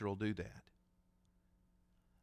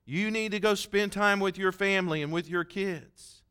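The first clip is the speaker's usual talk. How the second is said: mock scolding; 5 semitones higher than usual. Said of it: "she got mad with me".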